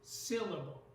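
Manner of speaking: "Syllable" with the weight on SYL; stress on first syllable. Shown as a demonstration. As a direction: lean on the opening of "Syllable", let the rest drop. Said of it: "the first syllable is stressed".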